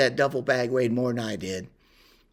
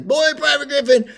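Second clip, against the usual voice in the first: much higher, much louder mock sergeant bark; drill sergeant yell; 10 semitones higher, 6 dB louder than usual. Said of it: "And he says".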